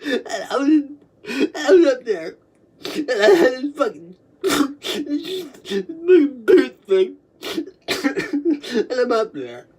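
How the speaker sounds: can barely get the words out; laugh crying. Real, not acted. Helpless laughter telling story.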